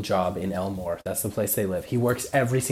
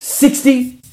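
a high, loud "Sixty?"; shocked; 14 semitones higher, 9 dB louder than usual. Real, not acted. Friend shocked at sixty daily stops, high disbelieving yelp. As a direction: blurt it out in disbelief.

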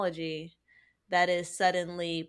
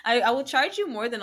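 loud, higher hammed-up smart speaker; mock assistant; 6 semitones higher, 8 dB louder than usual. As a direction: sell yourself as a pricey assistant. Playing a pricey voice assistant.

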